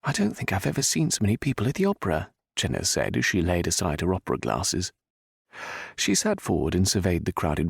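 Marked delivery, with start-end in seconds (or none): 0.0-2.3 put-on high, fast amazed young woman; excited young lady. A narrator's reading. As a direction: marvel at the crowd. Jenna marvelling at crowd.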